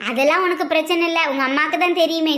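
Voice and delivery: ordinary delivery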